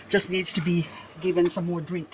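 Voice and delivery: ordinary delivery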